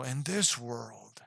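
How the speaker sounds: movie trailer voice. Retold or imitated. Reviewer mimics an old movie trailer voice, slow and hammed-up. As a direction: draw it out like an old film trailer. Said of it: "one of those old, uh, trailer voices".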